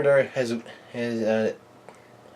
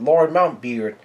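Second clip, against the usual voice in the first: a called-out name, mildly raised; mild mock yell; 3 semitones higher, 4 dB louder, slower than usual. Somebody calls out to Lord Mountbeard, mild retold yell. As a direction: lightly imitate someone shouting for a lord. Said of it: "somebody yells out".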